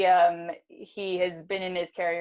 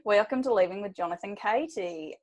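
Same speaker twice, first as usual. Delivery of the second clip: put-on Australian accent; 2 semitones higher than usual. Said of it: "I cannot stop doing a fucking Australian accent".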